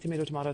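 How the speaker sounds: "tomato, tomato" said first with AY, then with AH; "tomato, tomato" as two competing pronunciations; two rival pronunciations. Retold or imitated. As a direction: contrast "tomato" as to-MAY-to and to-MAH-to. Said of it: "tomato, tomato thing".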